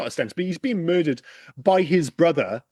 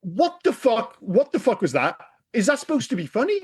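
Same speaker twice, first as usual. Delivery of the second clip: incredulous; 5 semitones higher than usual. Retold or imitated. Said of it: "I'm like".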